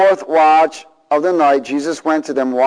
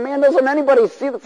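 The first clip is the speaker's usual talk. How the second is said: disbelief; 11 semitones higher than usual. Retold or imitated. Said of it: "I'm thinking".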